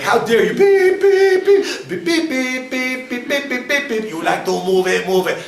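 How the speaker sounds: high, loud hammed-up tirade; mock outraged cursing. An offended coworker cursing back, hammed-up outrage. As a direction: bleep your own outrage, shrill and loud.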